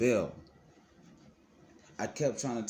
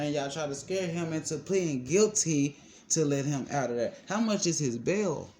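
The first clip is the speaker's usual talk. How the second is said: retold demand; 5 semitones higher than usual. Retelling Tana pressing the bondsman.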